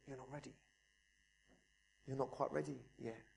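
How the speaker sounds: whisper. Retold or imitated. God whispers back to the praying believer, hushed. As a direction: breathe it like a still small voice. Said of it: "you just hear that whisper".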